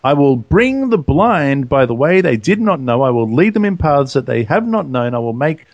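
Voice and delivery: measured reading of the prophet's words; reading the scripture aloud to the listeners. Acted.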